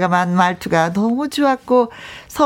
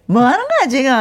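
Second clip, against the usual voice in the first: laughing mock scold; 3 semitones higher than usual. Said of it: "따님이 ... 심쿵했다는 말에".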